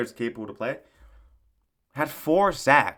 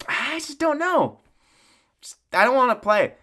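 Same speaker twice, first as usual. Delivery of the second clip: mopey quarterback; 11 semitones higher, 5 dB louder than usual. Retold or imitated. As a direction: whine it like a player who wants to quit. Mocking a reluctant quarterback.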